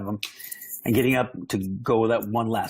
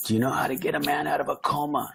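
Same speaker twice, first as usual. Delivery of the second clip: hushed, breathy whisper of a joke from a hospital bed; retold whisper, pitched up, leaning in close; 6 semitones higher than usual. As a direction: whisper it to the nurse like a secret.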